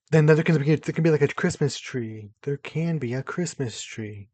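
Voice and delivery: loud, tripping over the words; excited stuttering. Real, not acted. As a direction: blurt it out, too thrilled. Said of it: "I was stuttering over my words because I was so excited".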